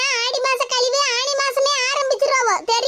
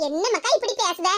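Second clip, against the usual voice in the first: mother feigning love to coax the daughter home; put-on affection; 3 semitones lower than usual. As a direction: lay on the fake tenderness. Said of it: "பாசம் பொங்குற மாதிரி பேசிக்கிட்டு".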